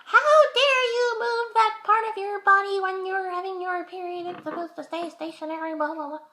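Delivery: high, loud mock outrage, easing off; hammed-up indignant body part; shocked, indignant muscles. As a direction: scold in an affronted high voice, then fade into babble. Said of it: "my muscles were, like, shocked".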